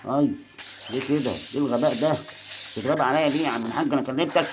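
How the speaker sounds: frustrated rebuke at his own card; exasperated scolding. Real, not acted. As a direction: tell him off for a dumb move. Scolding teammate card for mistake.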